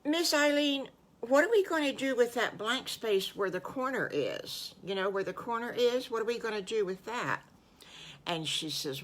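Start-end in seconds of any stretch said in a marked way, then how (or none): 0.0-7.4 put-on lightly raised child's voice, eager; a hint of a worried little pig asking the teacher; Patty Pig voice. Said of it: "Patty Pig says".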